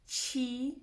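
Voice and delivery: "Chiriro" slowly, syllable by syllable with pauses; broken into syllables. Shown as a demonstration. Teacher breaking down a tongue twister for learners, "Chiriro" syllable by syllable. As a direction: split "Chiriro" into chi, ri, ro, drawn out. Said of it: "if you break it down".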